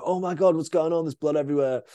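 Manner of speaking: retold panicked exclamation; mock alarm. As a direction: imitate someone stumbling on a gory scene. Acting out shocked passerby at injury.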